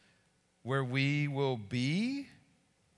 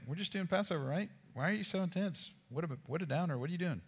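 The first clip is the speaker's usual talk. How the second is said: higher, mock-puzzled and a touch whiny; clueless disciples; 5 semitones higher, 4 dB quieter, faster than usual. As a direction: play the confused disciples who just don't get it. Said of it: "They're like".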